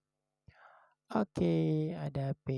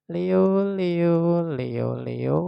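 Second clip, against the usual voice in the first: loud, raised call; 2 semitones higher, 8 dB louder, much slower than usual. Real, not acted. Tarot reader summoning Leo for the reading, calling out. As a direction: call the name out loudly.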